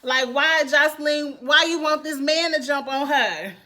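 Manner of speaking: exasperated, confused appeal; baffled protest. Real, not acted. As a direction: demand an explanation in disbelief. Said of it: "I am so confused".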